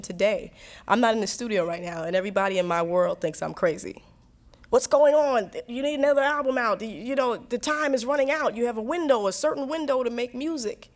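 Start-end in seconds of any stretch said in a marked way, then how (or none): 4.7-10.9 lightly voiced pressuring insiders, pitched up; mock nagging. Her circle urges her back to the studio, mock urgency. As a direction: press urgently, imitating worried music-business people.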